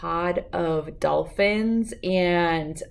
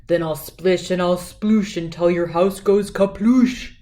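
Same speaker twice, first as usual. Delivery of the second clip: a touch of a grumbling villain, a bit louder; grumbling gar; 4 dB louder than usual. A narrator's reading. Gar threatening the little bass, mildly grumbling. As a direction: grumble it out like a lightly voiced bad fish.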